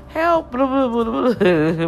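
mock cry for help. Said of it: "and they like".

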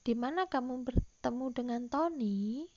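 "Di mana kamu bertemu dengan Tony" falling at the end; falling intonation. Shown as a demonstration. Teacher demonstrates an open question for pupils, falling intonation. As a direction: let the tune drop away on "Tony". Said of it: "itu menggunakan intonasi menurun".

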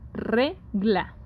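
"regla" spoken as RE, then a falling GLA; stress on RE. Shown as a demonstration. Teacher repeats the example for students, stressing RE in "regla". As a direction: stress the first syllable of "regla", syllables apart. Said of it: "Re es la sílaba tónica".

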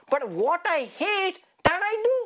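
mock-mad complaint, rising at the end; acted frustration. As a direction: pitch climbing in exasperation. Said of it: "they're just mad".

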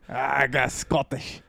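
slow, put-on Scottish; growing proud of a rough Scottish attempt; mock Scottish, drawn out; angry-sounding Scottish accent. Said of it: "You just sound angry".

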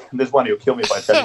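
ordinary talk

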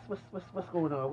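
normal talking voice

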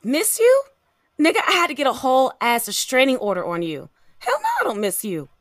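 incredulous high jump on "miss you", then dismissive; indignant rejection; scornful disbelief. Acted. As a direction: throw it back at your ex in disbelief. Rejects ex's sweet talk on phone.

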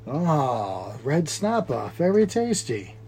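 soft, savoring mock Asian accent. Host quotes Wheel of Fish, soft mock Asian accent. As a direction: draw it out softly in imitated Asian accent. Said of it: "red snapper on Wheel of Fish".

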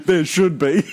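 cracking up at a joke; laughing. Real, not acted. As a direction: laugh through the words.

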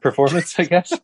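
holding back laughter; words with a laugh breaking through; trying not to laugh. Real, not acted. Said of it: "You're making me laugh".

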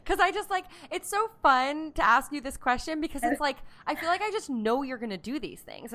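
beaming, bubbly and delighted; smiling voice. Real, not acted. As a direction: talk through a huge grin. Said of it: "My cheeks hurt 'cause I'm smiling so hard".

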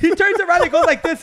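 cracking up mid-story; laughing. Real, not acted. Retelling Pacho's fart, cracking up.

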